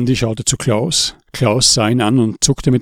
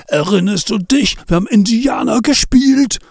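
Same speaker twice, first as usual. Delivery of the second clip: rushing memory; 10 semitones higher than usual. A narrator's reading. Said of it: "sauste es durch Andis Gehirn".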